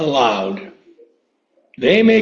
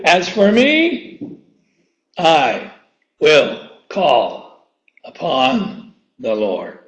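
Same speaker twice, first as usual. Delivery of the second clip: slow fading recitation; 3 semitones lower, much slower than usual. Shown as a demonstration. Preacher answering what you will do, slow and hushed. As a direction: let the verse sink low and slow. Repeats verse, slowing and fading.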